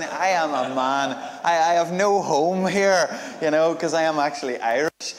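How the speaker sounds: loud, high, hammed-up plea; hammed-up lament. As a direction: protest it loudly like a mock tragedy. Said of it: "I'll just ham it up a wee bit".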